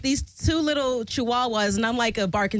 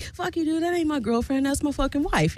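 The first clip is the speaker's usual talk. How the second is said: raised-pitch mock indignation, no shouting; retold indignant retort; 6 semitones higher than usual. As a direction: act out a man's offended comeback, pitched up. Acting out Pat's angry retort.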